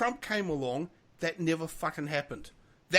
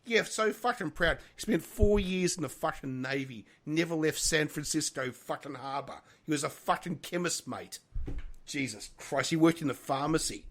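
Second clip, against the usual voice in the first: real venting, working up through the swearing; getting angry. Real, not acted. Host venting about an ex-friend who claims veteran status, getting angry. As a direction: rant with bitter emphasis on the curses. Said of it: "I'm getting angry".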